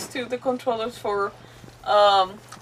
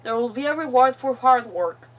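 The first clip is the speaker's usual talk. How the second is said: deliberate, phrase-by-phrase reading; reading a captive's diary; 2 semitones higher, slower than usual. Acted. Captive's farewell to the troop, deliberate read-aloud voice. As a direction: read the final words with long pauses.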